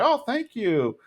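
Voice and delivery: Cotton impression. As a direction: take his beer smugly.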